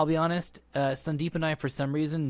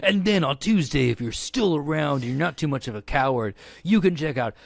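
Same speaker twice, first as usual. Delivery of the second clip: monster truck ad. Acted. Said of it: "reading this as a monster truck advertisement".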